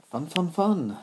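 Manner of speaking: sarcastic cheer. Real, not acted. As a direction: sing out a fake delight at a boring task. Mock cheer at a chore.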